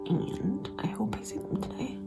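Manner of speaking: tearful, exhausted whisper; whispering while crying, drained; crying, worn out. Real, not acted. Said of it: "I don't know why I can't stop crying".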